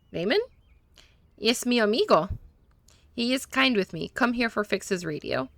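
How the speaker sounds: lightly put-on Spanish accent, broken English; a hint of a Spanish-speaking mechanic, eager to please; gentle Spanish accent, a little nervous; mechanic's Spanish accent. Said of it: "that was on purpose that he was talking that way".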